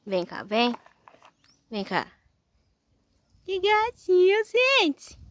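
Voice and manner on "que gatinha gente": cooing at the sheep. Real, not acted. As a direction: coo over a cute little animal. (voz bem aguda e lenta de carinho)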